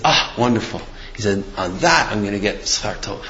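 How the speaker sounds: soft, contented retold reply; understated approval after the dramatic news; quiet satisfaction. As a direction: drop the voice, savoring it privately. Retold rabbi contentedly welcomes insults.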